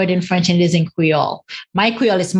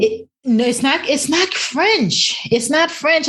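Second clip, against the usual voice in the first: emphatic correction; 8 semitones higher than usual. Real, not acted. Correcting the New Orleans claim.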